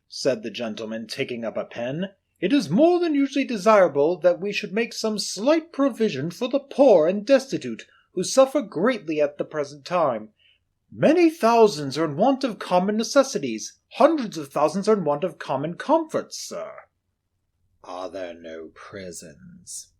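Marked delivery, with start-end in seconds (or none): 2.4-16.7 earnest charity collector. Acted. Gentleman asking Scrooge to give to the poor, earnest. 17.8-19.9 low, slow, hushed reply; cold old miser. Acted. Scrooge telling the gentleman of Marley, low and cold.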